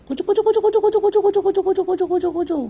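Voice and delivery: very high sing-song kuchu kuchu, repeated; high cooing pet call. Real, not acted. Coaxing her angry pet to calm down, very high cooing. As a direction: coo up high like calling a little pet.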